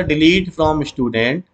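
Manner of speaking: very slow, word by word; slow dictation. Shown as a demonstration. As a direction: spell it out for students to copy. Teacher dictating SQL query.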